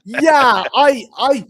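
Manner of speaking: sudden loud, high eager yeah; bursting to get the words out; excited burst. Real, not acted. Excited outburst before rant.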